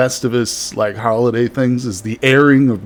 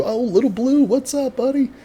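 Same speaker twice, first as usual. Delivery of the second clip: excited greeting; 14 semitones higher than usual. Real, not acted. Greeting a viewer in chat.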